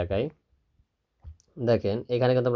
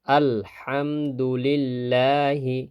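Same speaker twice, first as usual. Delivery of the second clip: slow recitation; much slower than usual. Shown as a demonstration. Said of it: "খারা জবর আসছে".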